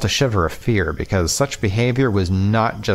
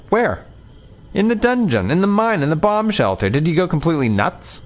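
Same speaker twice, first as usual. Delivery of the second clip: heated demand; 8 semitones higher than usual. Acted. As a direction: grill him hard, voice raised. Heated quarrel with Shirk.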